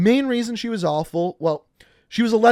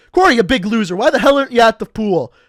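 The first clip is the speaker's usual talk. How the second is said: loud, higher-pitched taunt of a buddy; mock heckling; 4 semitones higher, 9 dB louder than usual. The speaker razzes Corey over speakerphone, loud mock heckling. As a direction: imitate a friend hollering insults down the phone.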